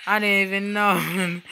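high, loud, amused outburst; laughing hard. Real, not acted. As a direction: talk through real laughter. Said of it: "I'm laughing so hard right now".

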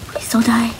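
tiny whispered plea; pleading whisper. Real, not acted. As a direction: whisper it like a prayer. Begging her game character.

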